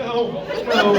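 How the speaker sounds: put-on startled kid.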